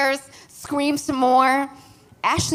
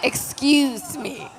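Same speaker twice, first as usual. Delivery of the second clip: slow, drawn-out shocked excuse me with a laugh; stand-in for an expletive; 3 semitones higher, much slower than usual. Retold or imitated. Standing in for a friend's shocked expletive. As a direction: stretch it out in mock disbelief. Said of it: "but I'm gonna say".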